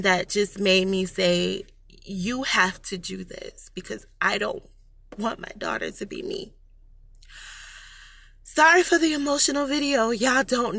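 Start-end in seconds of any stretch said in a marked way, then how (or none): 2.0-6.5 fighting back tears, softer and softer; holding back tears. Real, not acted. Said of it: "I'm trying not to cry". 8.4-10.8 shaky, tearful apology; a tearful laugh through the words; shaky sigh. Real, not acted. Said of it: "I'm trying not to cry".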